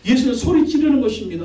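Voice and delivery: ordinary delivery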